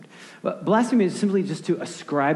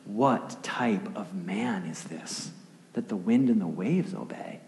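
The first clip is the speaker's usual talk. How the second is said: awed wonder; 3 semitones lower, 4 dB quieter, slower than usual. Acted. Acted awestruck disciples.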